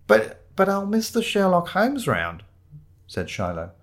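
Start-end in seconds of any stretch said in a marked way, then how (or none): 0.1-2.4 high, slow, stammered objection; plaintive protest. Acted. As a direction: plead like someone being sent home. Shiloh protests being sent home.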